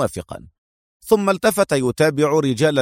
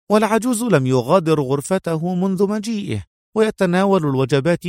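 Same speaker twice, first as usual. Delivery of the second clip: high-pitched woman's report; reading out notes; 6 semitones higher than usual. A narrator's reading. Mona reads her findings to Adham, reciting. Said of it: "وأخذت تقرأ".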